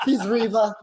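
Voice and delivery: laughing through the words; amused laughing repeat. Real, not acted. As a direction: echo the joke while laughing. Repeats the Reba line laughing.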